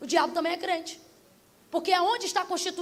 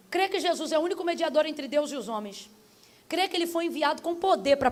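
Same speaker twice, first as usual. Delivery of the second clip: measured creed question at usual volume; solemn altar call. Real, not acted. Preacher leading listeners to confess Jesus, solemn altar call. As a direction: put the creed to them calmly and plainly.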